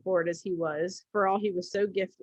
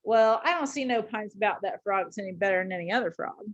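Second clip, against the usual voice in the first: very deliberate. Acted. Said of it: "very deliberate".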